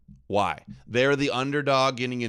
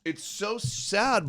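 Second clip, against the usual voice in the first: mock sadness; 8 semitones higher, slower than usual. Sarcastic reply to the guest.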